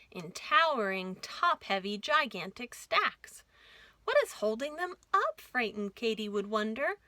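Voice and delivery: lively rhyming storybook read; reading to children. A narrator's reading. Host reads the caboose book aloud to kids, lively. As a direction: bounce the rhymes for little listeners.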